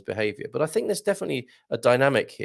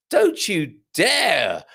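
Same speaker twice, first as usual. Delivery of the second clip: mock stern; 7 semitones higher, 4 dB louder, much slower than usual. Mock scolding a commenter.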